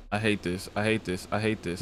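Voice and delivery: soft, low, repeated under the breath; nervous low muttering. Real, not acted. Uneasy player talking to himself in horror game, nervous muttering. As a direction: mutter it quietly to yourself.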